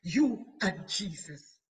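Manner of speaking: slow and loud, each word landed; proclaimed refrain. Real, not acted. Preacher proclaiming the refrain to the congregation, loud and slow. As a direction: proclaim it like a battle cry.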